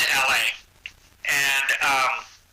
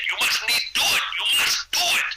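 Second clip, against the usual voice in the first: put-on light Austrian accent, pitched up; a hint of an Austrian strongman insisting; Arnold's Austrian accent; 10 semitones higher than usual. Arnold urging him to do the show, light Austrian accent. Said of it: "He goes".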